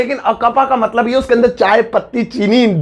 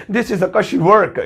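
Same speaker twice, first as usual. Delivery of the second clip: very slow, word by word; slow the slang one for learners; slow teaching read; slow slang version; much slower than usual. Shown as a demonstration. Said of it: "तो अंग्रेज बोलेंगे".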